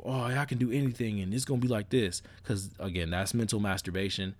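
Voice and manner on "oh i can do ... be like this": mild mock manic excitement; raised pitch, imitating giddy overconfidence; manic high. Mocking the belief you can do anything, mildly manic. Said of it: "this little manic high of".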